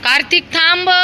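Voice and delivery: high loud call to stop. Real, not acted. Mother calling toddler to stop running, loud high call. Toddler ran toward plane sound.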